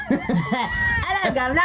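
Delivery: high, shouted mock British accent. Co-host shows how to do the British accent, shouting. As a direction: belt it out in an over-the-top British accent. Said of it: "You got to do it with the teeth".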